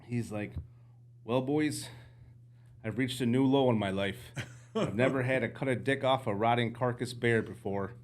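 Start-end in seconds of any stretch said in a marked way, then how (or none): 1.2-7.9 put-on light Canadian accent, laughing; a mild Canadian guide voice. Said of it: "I'm gonna try my Canadian accent again".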